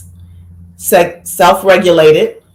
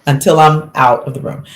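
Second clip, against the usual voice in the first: slow, deliberate ultimatum with hard pauses; firm parental order; 2 semitones lower, slower than usual. Retold or imitated. Mother telling her interrupting son to stay out, slow and firm. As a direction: lay down the law, word by word.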